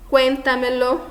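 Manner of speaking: "cuéntamelo" stressed on CUÉN, the rest light; early-syllable stress. Shown as a demonstration. Teacher giving an example of a sobresdrújula, "cuéntamelo" with first-syllable stress. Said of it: "quarta, quinta ou sexta sílaba mais forte".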